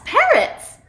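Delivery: PARROTS exclaimed high and loud; emphatic, slow PARROTS; excited exclamation. A narrator's reading. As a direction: announce PARROTS with delighted emphasis, drawn out. Storyteller confirms the surprise.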